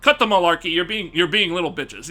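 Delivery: mild-mannered scolding, lightly imitated; a hint of a square guy trying to go hard; half-hearted, stumbling telling-off; mock whitest-guy voice. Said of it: "the whitest way you can explain it".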